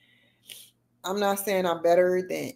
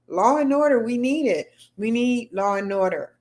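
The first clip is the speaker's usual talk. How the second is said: a light Trump impression, punchy and louder; 4 semitones higher, 4 dB louder than usual. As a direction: imitate Trump's rally slogan, pushing it up high. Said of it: "I start talking like him when I get really excited".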